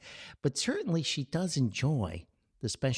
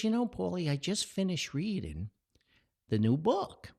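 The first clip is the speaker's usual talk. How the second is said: lightly raised mother's voice; mom's voice; 8 semitones higher than usual. Retold or imitated. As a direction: voice his mum, a bit higher. Son voicing his mother.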